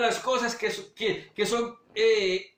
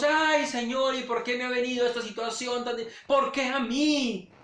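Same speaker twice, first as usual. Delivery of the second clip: whiny complaint; 5 semitones higher than usual. Retold or imitated. Believer complaining to God.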